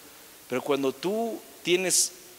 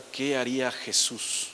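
slow, thoughtful and lower; humble reflection; 4 semitones lower, slower than usual. Shown as a demonstration. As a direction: ask it gently, pondering. The humble question preacher recommends.

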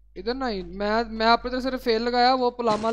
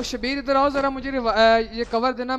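cover me shout; 4 semitones higher, 8 dB louder, slower than usual. Real, not acted. Calling teammates for cover.

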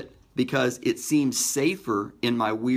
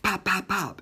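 imitated pops; 8 semitones higher than usual. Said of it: "three pops like gunfire".

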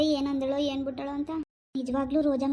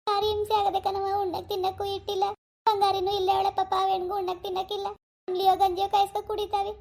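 higher, whimpering plea for pity; crying plea; 4 semitones higher than usual. Acted. Daughter pleading with mother about hunger, tearful. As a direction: plead through tears so she gives in. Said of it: "ಕಷ್ಟ ಬಂದಾಗ ಕಣ್ಣೀರ್ ಹಾಕಿದ್ರೆ".

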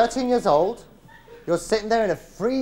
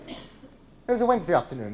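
usual speaking voice

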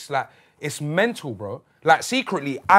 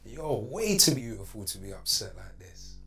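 woo her like a perfect robot lover; smooth AI boyfriend. Acted. AI boyfriend charm skit.

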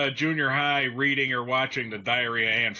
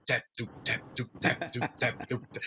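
imitated drum game; 4 semitones lower, 7 dB quieter than usual. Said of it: "you just hear it, boop".

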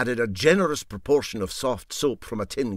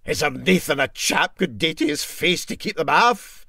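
a lightly voiced Scots engineer, higher; engineer's voice; 7 semitones higher, 7 dB louder than usual. Engineer asking the crew about midges, lightly voiced Scots. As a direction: plead a little as the worried engineer. Engineer's voice in Para Handy tale.

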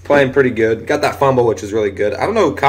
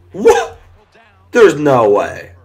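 stunned disbelief; 2 semitones higher, 4 dB louder, much slower than usual. Real, not acted. Gamer seeing an impossible touchdown, shocked shriek.

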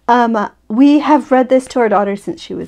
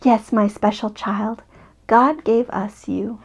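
slow, gentle bedtime voice; tender reassurance; 4 dB quieter, slower than usual. Acted. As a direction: reassure your little one, unhurried. Mother reassures child at bedtime.

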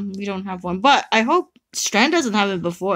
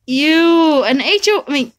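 frustrated; 5 semitones higher, slower than usual. Real, not acted. Bad summon result.

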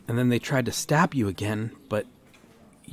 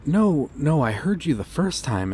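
rising, louder flustered no; flustered protest; 4 semitones higher, 6 dB louder than usual. Acted. Flustered officer protesting his proposal, louder. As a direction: cut him off, half embarrassed.

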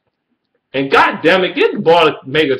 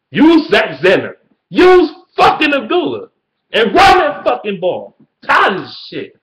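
high, loud frustrated shout; angry rant; 7 semitones higher, 3 dB louder than usual. Real, not acted. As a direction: yell it at the coaches. Ranting at the coaches.

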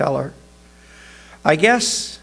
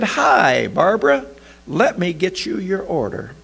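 shop clerk voice; 7 semitones higher than usual. A narrator's reading. Clerk greets regular customer.

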